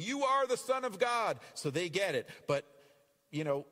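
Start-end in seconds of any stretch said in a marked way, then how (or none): 0.0-1.4 high, loud spirit cry; shrieking spirit. Acted. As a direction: shriek it out much higher and louder.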